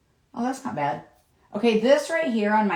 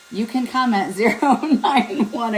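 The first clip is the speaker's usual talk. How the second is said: laughing infomercial plug; 3 semitones higher than usual. Real, not acted. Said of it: "I sound like an infomercial".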